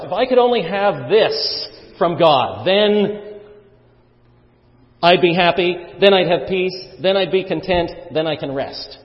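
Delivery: lightly voiced wishful listener; longing inner voice. Imagined worshipper wishing for something from God. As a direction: say it as a half-hearted yearning wish. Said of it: "what would you say to yourself".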